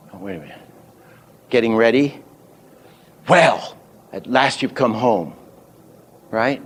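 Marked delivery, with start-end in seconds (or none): 3.3-5.3 "Well" hit first, "home" lengthened; accents on Well, home. Shown as a demonstration. Teacher demonstrating the accents once ready, stress on "Well" and "home". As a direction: punch "Well" and settle slowly on "home". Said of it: "a hand accent on the home".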